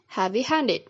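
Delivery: "heavy-handed" with main stress on "handed"; secondary stress on "heavy", primary on "handed"; primary stress on second word. Shown as a demonstration. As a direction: say "heavy-handed", leaning most on "handed". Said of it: "has the primary stress on the second word".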